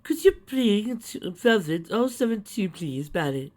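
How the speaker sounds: high, slow call from the back; old lady calling. A narrator's reading.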